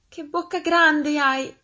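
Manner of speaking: high, loud, drawn-out astonishment; storybook child at peak amazement; amazed little girl. A narrator's reading. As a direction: exclaim slowly like an awestruck child. Girl's last astonished exclamation.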